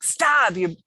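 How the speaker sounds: mock-yell the Stop, then trail into the complaint; irritated outburst. Woman retelling snapping at someone, loud mock yell. Quoting own hormonal outburst.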